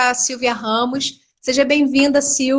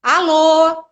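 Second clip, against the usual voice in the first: slightly brighter, livelier phone hello; lightly imitated upbeat caller; a third phone greeting; 3 semitones higher, 4 dB louder than usual. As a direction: pick up the phone eagerly. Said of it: "Outras falam".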